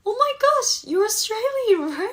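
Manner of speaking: very high, loud mock astonishment; hammed-up realization. Retelling meeting the Australian editors, hammed-up astonished squeal. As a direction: squeal the discovery, loud and drawn out. Acts out her sudden realization.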